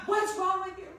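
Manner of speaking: hammed-up husband asking what's wrong; alarmed husband. Husband reacting to his wife's shriek, alarmed.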